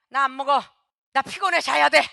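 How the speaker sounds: testy acted complaint; irritable refusal. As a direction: brush everyone off, cranky and tired. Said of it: "신경질적으로 말이 변해요".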